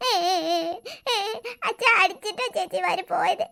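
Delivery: sniffle and blubber through the words; crying child. Acted. Little boy sobbing to his father about his sisters leaving.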